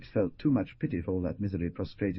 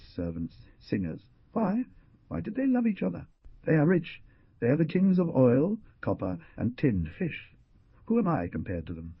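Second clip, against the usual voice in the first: raised pitch for the characters' speech; pleading young man, voiced higher; voiced dialogue; 7 semitones higher, 5 dB louder than usual. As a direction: lift the voice for the quoted lines. Efix and Jacinto dialogue.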